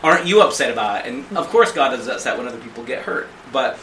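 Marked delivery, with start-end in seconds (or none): 0.0-1.0 put-on petulant kid. Speaker as petulant kid complaining to God, mock sulk. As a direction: play a pouty child, lightly. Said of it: "petulant kid going".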